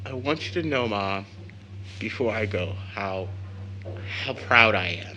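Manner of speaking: quiet, moved voice to his mother; a quiet, choked-up goodbye to Ma; hushed emotional farewell. Acted. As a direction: hold back the feeling and speak it softly.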